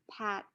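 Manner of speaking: "pat" with a puff of air on the p; breathy burst on the p of "pat"; aspirated p. Shown as a demonstration. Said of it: "p is aspirated".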